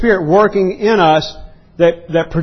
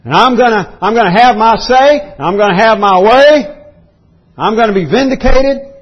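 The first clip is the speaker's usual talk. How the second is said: mock entitled mentality; 4 semitones higher than usual. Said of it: "Paul's saying".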